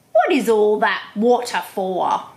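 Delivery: loud whispered, snappy question; platypus voice. Acted. Platypus asking the dingo about the water, loud whisper. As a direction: snap the question like a curious platypus. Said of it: "my platypus and my dingo have very different voices".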